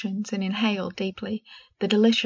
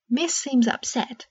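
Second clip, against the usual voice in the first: concerned elf; 4 semitones higher, slower than usual. Acted. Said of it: "she said, concerned".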